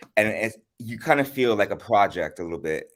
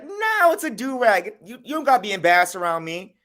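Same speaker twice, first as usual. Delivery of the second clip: high, louder squeaky imitation of the friend; mock squeaky friend; 10 semitones higher, 4 dB louder than usual. Friend dismissing the headscarf, squeaky high mock voice. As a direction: parody him as a squeaky know-it-all. Friend insisting in retold argument.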